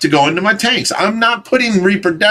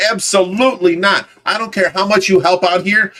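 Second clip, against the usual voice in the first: ordinary delivery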